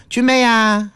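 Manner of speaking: fond, coaxing call of 君妹呀; sweet pet name. Retold or imitated. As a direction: parent calling 君妹呀 sweetly. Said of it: "平常的时候喊你都是". (亲昵地叫小名)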